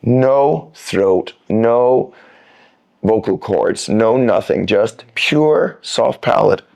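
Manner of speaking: slow, drawn out, PURE leaned on; slow emphasis. Shown as a demonstration. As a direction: stretch "pure" out slowly and lean on it. Teacher stresses the key point.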